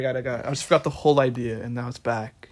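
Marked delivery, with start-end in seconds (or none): 1.6-2.5 soft whisper to herself. Real, not acted. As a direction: whisper it as the idea returns. Remembers the lost idea.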